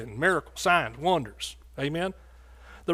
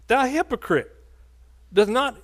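plain; 7 semitones higher than usual. Retold or imitated. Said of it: "he said".

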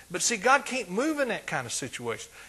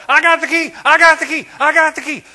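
high, loud, triumphant shouting; mock shouting; 11 semitones higher, 13 dB louder than usual. Preacher mocks a man shouting on his car roof. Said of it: "Stand up on top of the car".

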